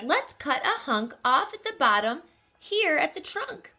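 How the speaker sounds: high, eager bear voice; proud little bear; bear cub voice. Acted. Barnaby voiced.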